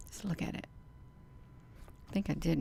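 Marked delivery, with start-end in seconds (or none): 0.1-0.7 hushed. Real, not acted. Awed at the sky.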